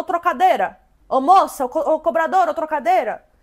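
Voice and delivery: mock loud shouting, repeated over and over. Retelling a bus passenger calling out to the conductor, imitating someone shouting. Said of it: "Ela ficou gritando".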